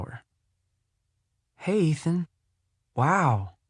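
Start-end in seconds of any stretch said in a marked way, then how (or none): 1.6-3.6 higher-pitched, excited hello; excited greeting. Acted. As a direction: greet an old friend with amazed excitement. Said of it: "apparently excited to see me".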